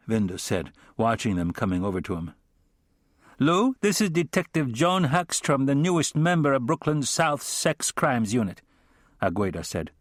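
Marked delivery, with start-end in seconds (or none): 3.4-8.6 female character voice. Acted. Agueda's dialogue, female character.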